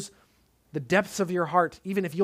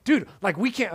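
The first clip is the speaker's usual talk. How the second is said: mock panic. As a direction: play the scared servant, half-joking. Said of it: "he's freaking out".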